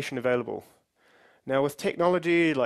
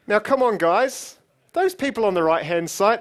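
louder, challenging call to the audience; goading the crowd; 5 semitones higher, 6 dB louder than usual. Real, not acted. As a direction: egg them on from the stage.

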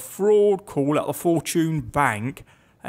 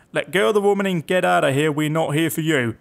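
Yorkshire bloke. Acted. Police officer to hostage taker, lightly put-on Yorkshire accent. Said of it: "I thought that was a Yorkshire bloke".

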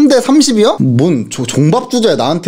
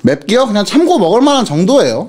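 chewing while speaking; eating spicy chicken mid-sentence; talking with mouth full. Real, not acted. Seen 0: bit chicken at -1, cheeks full, holds chicken while talking.

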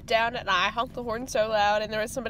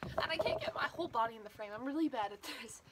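quiet, shivery voice in the cold; freezing cold; 8 dB quieter than usual. Real, not acted. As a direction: talk softly through the cold. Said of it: "It's freezing cold out here".

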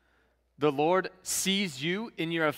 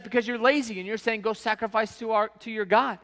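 mock scolding Pharaoh; 6 semitones higher than usual. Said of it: "He's like".

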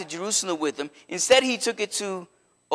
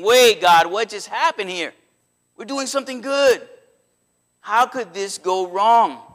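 mildly freaked-out, raised voice of disbelief; freaked-out protest; 3 semitones higher, 3 dB louder than usual. Retold or imitated. David questioning God after the disaster, freaked-out protest. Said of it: "he freaked out 'cause he's like".

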